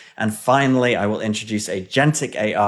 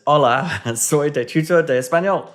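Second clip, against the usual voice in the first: put-on reading the Spanish reply in a clumsy English-speaker's Spanish accent, with a laugh; horrible Spanish accent; 3 semitones higher than usual. Tutor reading the chatbot's Spanish greeting aloud, clumsy Spanish accent. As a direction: stumble through the Spanish like a beginner. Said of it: "forgive my horrible accent".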